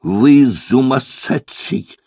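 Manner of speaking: indignant German lady raising her voice mildly. A narrator's reading. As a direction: scold him, stretching the last word. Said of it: "повысила она голос".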